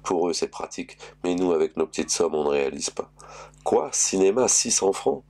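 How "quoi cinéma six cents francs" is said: rising, louder incredulous questions; shocked at the price; indignant surprise. Acted. Husband's outraged questions in story. (surprise indignée)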